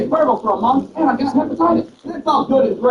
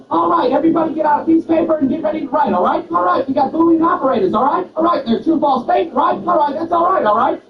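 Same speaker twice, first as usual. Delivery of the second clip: a lightly voiced old professor rattling off all right; fast-talking professor; 5 semitones higher than usual. Old professor racing through a lesson to the class, quick mock lecture. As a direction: rush the lesson, tagging all right everywhere. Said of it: "he would also say the word all right".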